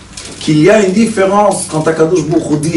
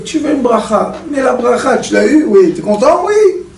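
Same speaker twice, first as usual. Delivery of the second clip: mocking tone; 5 semitones higher than usual. Mocking the satisfied blessing seeker.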